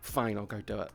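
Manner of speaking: low, matter-of-fact giving in; suddenly perfectly fine. Retold or imitated. Ex clicks out of fake crying, suddenly fine. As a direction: drop the tears and concede plainly. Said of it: "to being perfectly fucking fine".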